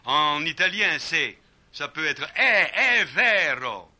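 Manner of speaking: "è vero" loud and wide open; Italian è, wide and loud. Shown as a demonstration. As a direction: throw "è" out open and slow. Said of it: "avec toute l'ouverture italienne".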